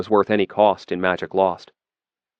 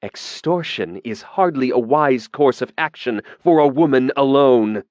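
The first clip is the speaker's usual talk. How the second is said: cold, dangerous; 5 semitones higher, 3 dB louder than usual. A narrator's reading. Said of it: "a cold, dangerous note in his voice".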